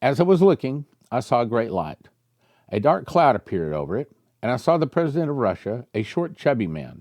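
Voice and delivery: lightly heightened prophetic reading; reading prophecy aloud. Acted. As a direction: read the vision out like a revelation. Reads prophecy.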